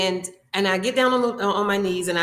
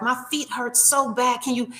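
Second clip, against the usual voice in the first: imitating a teary, higher plea; mock a pained woman begging, pitched up; lightly voiced hurting lady near tears; 4 semitones higher than usual. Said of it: "she's practically in tears".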